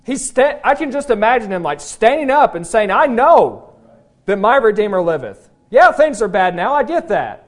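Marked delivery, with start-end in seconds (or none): 2.9-7.4 bold declaration. Acted. Imagining Job standing up.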